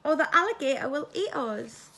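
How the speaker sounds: mild squeak of a worried mouse. A narrator's reading. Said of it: "squeaked the mouse".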